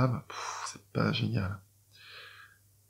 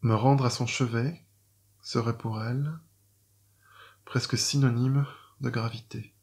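poem reading. Shown as a demonstration. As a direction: recite each line as a quatrain verse, letting the last fade. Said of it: "je vais vous lire maintenant mon premier quatrain".

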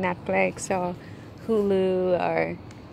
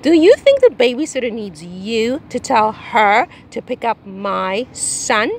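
slow, louder sarcastic jab; sarcastic indignation; 4 dB louder than usual. Acted. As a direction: lay the sarcasm on thick. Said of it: "this is Taylor".

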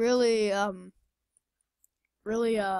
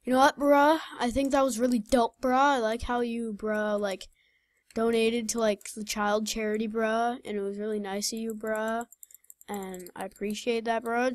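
mock street talk. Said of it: "Just imagine I get all, like, street".

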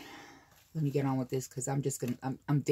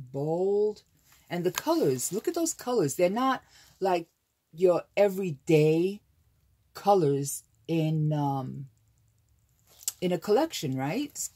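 louder enthusing; 3 semitones higher, 5 dB louder than usual. Real, not acted. Enthusing about colors.

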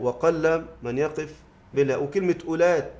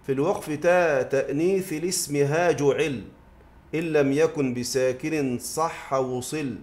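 slow, measured didactic verse; verse recitation; slower than usual. Acted. Teacher quoting Ibn Malik's verse, measured recitation. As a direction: recite the metred couplet deliberately.

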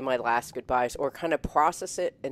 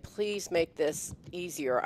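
pleading prayer; 3 semitones higher, 4 dB quieter, slower than usual. Retold or imitated. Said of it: "I wish I could call the angels".

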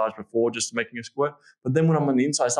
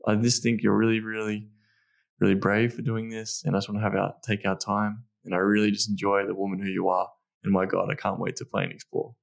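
softly lower, tender and sincere; soft reassuring words to a partner; really soft; 3 semitones lower than usual. Shown as a demonstration. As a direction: ease her in gently. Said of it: "now I'm being really soft".

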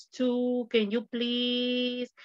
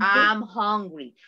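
slow model answer; 4 dB louder, slower than usual. Shown as a demonstration. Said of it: "Ah, muy bien".

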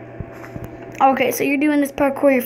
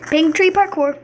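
talking while chewing gum; 2 semitones higher than usual. Real, not acted. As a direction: chew gum as you talk. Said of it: "Sorry, I'm chewing gum".

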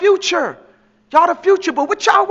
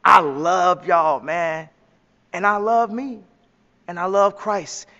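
sincere; 5 semitones lower, slower than usual. Real, not acted. Slow sincere declaration.

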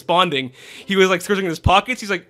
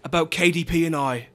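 slightly put-on British accent; lightly done British storyteller impression; Gordon Ramsay; 3 semitones lower than usual. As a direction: tell it in a mock British accent. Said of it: "I sound like Gordon Ramsay now".

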